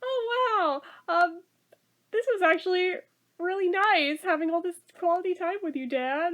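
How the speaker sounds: a hint of a sincere child; sweet kid voice. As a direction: thank Dad like a touched little boy. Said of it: "it's just like".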